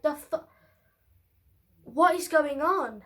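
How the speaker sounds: bewildered, with slow emphasis; retold bewilderment. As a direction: re-enact mild disbelief, drawing the words out. Retold bewilderment watching mum cry.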